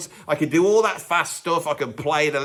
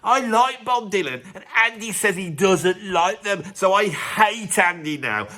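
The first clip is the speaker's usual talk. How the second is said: mock indignant fan, drawing out the grievance; lightly acted huffy online commenter; angry fan. Angry fan typing a comment against Andy, mildly mock-indignant. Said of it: "every fan of them is now angry".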